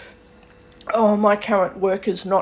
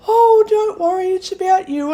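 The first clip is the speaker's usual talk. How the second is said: quoted worker; 11 semitones higher, 5 dB louder than usual. Retold or imitated. Voicing worker's reassuring reply.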